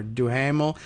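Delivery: Duhamel as "doo-HAM-ul"; alternative three-syllable pronunciation. Shown as a demonstration. Host offering another guess at the surname, Duhamel said as "doo-HAM-ul". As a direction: sound the H and middle vowel in Duhamel. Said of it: "I don't know how she pronounces this last name".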